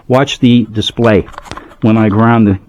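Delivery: talking around a phone in the mouth; phone held in teeth. Real, not acted. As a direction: speak with a phone clenched in the teeth. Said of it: "I'm holding my phone with my mouth".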